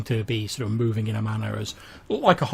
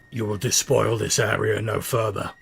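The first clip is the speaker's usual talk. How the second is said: gravelly bandit voice. Acted. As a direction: growl it out like a menacing guard. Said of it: "in a sort of quite a gravelly voice".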